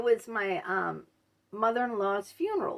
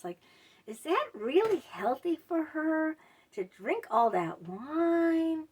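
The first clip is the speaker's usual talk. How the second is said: higher, sugary mock caring; fake concern; 3 semitones higher than usual. Gossip pretending to care about Susan, mock sweet. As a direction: sound caring but gossip underneath. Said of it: "they'll act so nice about it".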